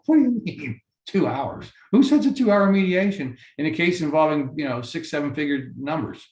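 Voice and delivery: jumps high in mock outrage, then settles; incredulous retold question; retold disbelief. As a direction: replay the shock of hearing it. Retells disbelief at two-hour mediation.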